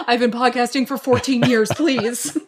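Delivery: whiny podcaster. Pretend.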